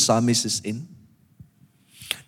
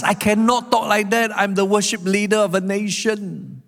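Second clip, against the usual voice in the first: higher-pitched, exasperated protest; frustrated protest; 5 semitones higher than usual. Acted. Psalmist torn as worship leader of a nation, frustrated protest. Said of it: "the frustration".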